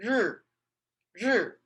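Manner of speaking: R dropped sharply from high, falling fourth tone; Chinese fourth tone. Shown as a demonstration. Teacher modelling the fourth tone on sun. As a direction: snap the pitch down on R. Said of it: "This is the fourth tone".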